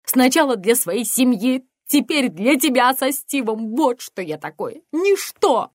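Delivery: loud high despairing cry; shouting near tears. Acted. Mother screaming at her daughter, starting to cry. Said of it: "начиная плакать".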